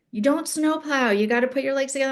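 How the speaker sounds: high, fast coaching instructions; coaching friend. Retold or imitated. Friend Toby coaching her technique, high and fast. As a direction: rattle off ski tips urgently. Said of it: "She's like".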